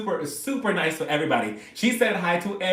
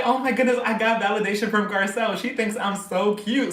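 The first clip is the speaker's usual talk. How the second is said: re-enacted giddy fan, higher pitch; higher, mock-giddy fangirl; starstruck delight; 4 semitones higher than usual. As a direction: gush over a compliment, drawing out the end. Re-enacts delight at idol's compliment.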